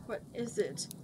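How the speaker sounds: softly, nearly a whisper; whispered question. A narrator's reading. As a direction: ask it under your breath. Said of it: "whispered Thurendil".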